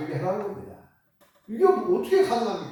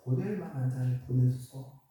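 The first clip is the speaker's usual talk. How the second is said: whiny excuse. Retold or imitated. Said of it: "또 핑계를 댑니다".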